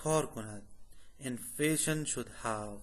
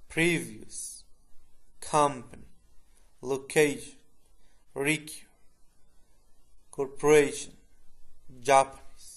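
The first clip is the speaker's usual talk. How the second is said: each word read alone, the stressed syllable hit louder; stressed syllables shown; 6 dB louder, slower than usual. Shown as a demonstration. Teacher showing students word stress, each word said on its own, louder on the stressed syllable. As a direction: punch the stressed syllable of "Previous", "company", "location", "corporation", "Japanese". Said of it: "Notice which syllable is stressed".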